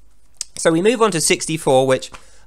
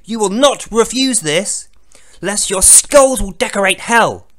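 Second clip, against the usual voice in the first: mock divine threat; 4 semitones higher, 4 dB louder than usual. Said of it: "That's literally what he's saying".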